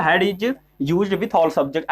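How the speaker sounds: very slow, word by word for notes; slow dictation of a grammar rule; dictation pace. Shown as a demonstration. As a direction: spell it out slowly so students can write. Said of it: "ठीक है?".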